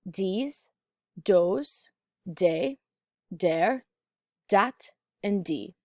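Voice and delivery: "Dees" and "dos" with TH as a light D; dublin accent. Shown as a demonstration. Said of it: "say these words with a light D at the tip of these words".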